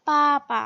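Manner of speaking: पापा with a strong first syllable, light second; पापा falling to an unaccented ending; neutral tone demonstration. Shown as a demonstration. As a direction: stress the first पा, drop the second. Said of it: "neutral tone कहते हैं".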